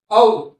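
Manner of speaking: "औ" held long and loud; teacher's loud long "औ"; long vowel. Shown as a demonstration. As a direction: draw out a strong "औ". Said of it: "वो long आ रहा है".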